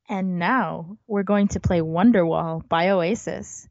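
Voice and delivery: slow, smooth radio DJ. Pretend. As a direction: announce it like a radio host. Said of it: "do your best D J voice".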